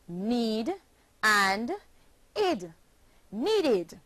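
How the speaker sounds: "need" then "id" apart, then "needed" joined; splitting syllables. Shown as a demonstration. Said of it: "and is pronounced needed".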